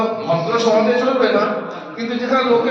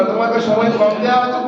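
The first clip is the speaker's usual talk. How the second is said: quick, slightly raised mock line; rushed bad example; faster than usual. Shown as a demonstration. Teacher mocking a student's filler line, rushed. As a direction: hurry through it like a nervous speaker. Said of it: "খবরদার বলবে না".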